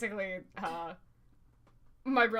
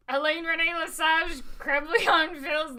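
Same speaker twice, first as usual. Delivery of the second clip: loud, fake French, laughing; hammed-up French names; mock French accent; 6 semitones higher, 7 dB louder than usual. Leslie inventing fake French authors, mock French accent.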